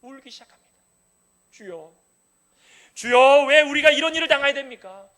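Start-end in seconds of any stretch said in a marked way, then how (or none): 1.5-5.1 loud, pleading lament; wailing prayer of a people in grief; anguished cry to God. Acted. Voicing Israel's lament prayer.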